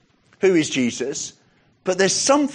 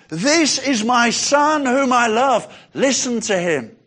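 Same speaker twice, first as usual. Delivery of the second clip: booming heavenly voice; 6 semitones higher, slower than usual. Acted. Preacher voicing God to frightened disciples, proclaiming. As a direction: announce it from the heavens. Voice at the transfiguration.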